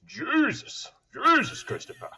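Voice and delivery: put-on high, loud laughing Boston-accent dad; dad impression. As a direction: ham up your late dad's Boston accent, laughing through it. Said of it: "I might need an impression right now".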